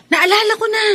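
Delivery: light bulb moment, blurt it out; sudden realization. Acted. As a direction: pitch jumps up as the idea hits. Sudden memory of a remedy.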